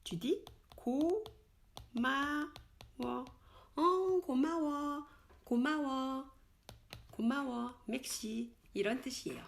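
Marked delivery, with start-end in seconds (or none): 0.8-7.7 고마워 lifted high and light; 고마워 said high and casual; casual friendly. Shown as a demonstration. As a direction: toss a bright thanks to a friend. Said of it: "Entre amis, comment on dit".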